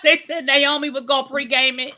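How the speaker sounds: giggling while telling it; laughing. Real, not acted. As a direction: keep laughing as you say it. Laughing at Naomi's antics.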